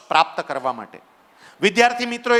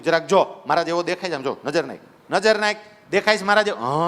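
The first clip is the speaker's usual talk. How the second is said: lion gently urging the cub to see his reflection; gentle coaxing; 3 semitones lower than usual. Acted. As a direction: coax him to look at the water. Lion coaxes at the lake.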